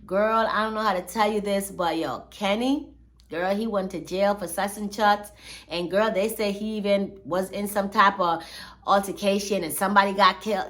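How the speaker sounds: gossiping friend. Retold or imitated. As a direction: spill the tea to a girlfriend, hushed. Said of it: "be like".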